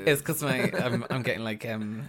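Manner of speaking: short of breath, words squeezed out; breathless, talking on a sick chest; running out of air. Real, not acted. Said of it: "I'm running out of breath when I talk".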